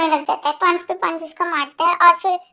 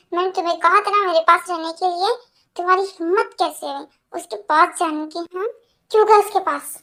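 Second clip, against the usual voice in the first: possessive, scolding demand; angry scolding. Acted. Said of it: "इतना गुस्सा क्यों कर रहे हो".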